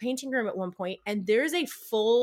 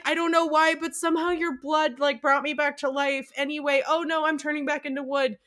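much higher nutcracker explanation; high toy voice; 6 semitones higher than usual. Retold or imitated. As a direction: talk like a little wooden prince.

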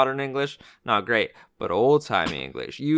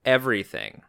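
mock rant; 3 semitones higher, 5 dB louder than usual.

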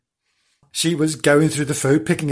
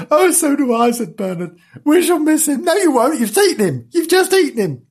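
high emphatic; 12 semitones higher, 5 dB louder than usual. Acted. Characters mourning, retort.

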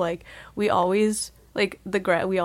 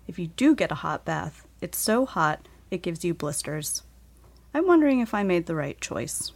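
put-on earnest, sombre reading of a childhood letter; letter reading with feeling. Reading her second-grade letter aloud for the podcast, sombre and earnest. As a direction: let each line of the letter land heavily. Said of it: "That was with much more feeling than yesterday".

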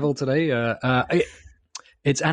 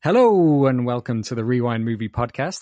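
lightly put-on podcast host greeting; a hint of a colleague's welcome, with a drawn-up hello; Gally impression. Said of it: "That was my best galley impression".

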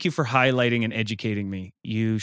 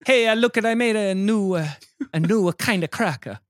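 excited inventor voice; 9 semitones higher than usual. Retold or imitated. Voices inventor showing Pope.

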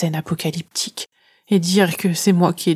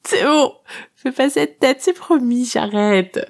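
1 teasing shadow; 6 semitones higher than usual. A narrator's reading. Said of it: "elle ajoute".

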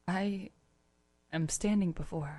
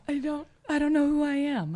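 giggly tickle attack; 11 semitones higher, 5 dB louder than usual. Acted. Overwhelmed after being tickled.

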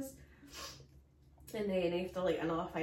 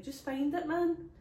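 1 mock urgent plea; 8 semitones higher, 5 dB louder, slower than usual. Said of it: "I was like".

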